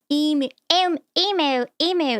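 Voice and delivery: emu said as "eem-yoo"; correct pronunciation. Shown as a demonstration. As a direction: EMU with a y-glide. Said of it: "Not emu".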